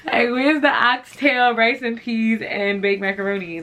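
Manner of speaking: high, loud comic complaint; mock outraged demand. Joking to viewers about his light meal, mock outraged demand.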